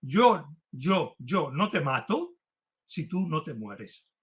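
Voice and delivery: mock-solemn joke, slowing toward the end; joking tone. Lecturer teasing a friend in front of the class, joking tone. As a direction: tease a friend, drawing out the punchline slowly. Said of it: "le digo así como en tono de broma".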